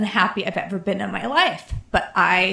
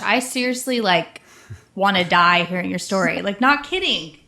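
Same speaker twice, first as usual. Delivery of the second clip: real emotion welling up; getting choked up while trying to talk; emotional; 2 semitones lower than usual. Real, not acted. Reacting to a guest's painful story, emotional. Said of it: "getting, like, so emotional".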